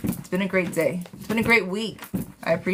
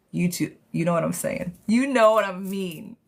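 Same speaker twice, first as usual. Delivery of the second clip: playfully cheeky, drawing out the last phrase. Pretend. Reader teasing a viewer about the accent, cheeky. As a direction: tease with a knowing, cheeky lilt. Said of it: "I'm being cheeky now".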